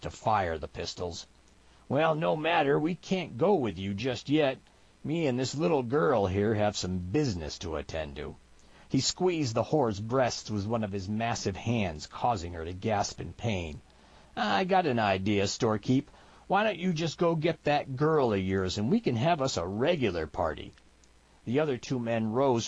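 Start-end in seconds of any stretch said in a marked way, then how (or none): 1.9-8.4 a hint of backwoods swagger, starting high; lightly voiced cocky mountain man. Mountain man brushing off storekeeper's arrest, lightly cocky. 14.4-20.7 a hint of backwoods swagger, starting high; lightly voiced cocky mountain man. Mountain man brushing off storekeeper's arrest, lightly cocky.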